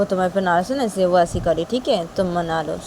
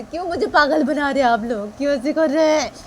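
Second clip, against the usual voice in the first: distraught Shanaya; 8 semitones higher than usual. Acted. Shanaya protests being driven mad.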